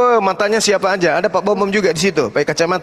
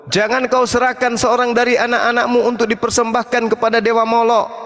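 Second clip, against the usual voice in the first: even, measured verse reading; scripture reading. Acted. Debater quoting a verse to his opponent, reading aloud. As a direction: read the verse out on a steady tone.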